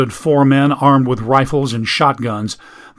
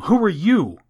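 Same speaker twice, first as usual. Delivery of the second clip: put-on boy's voice; 8 semitones higher than usual. Eustace asks the strangers.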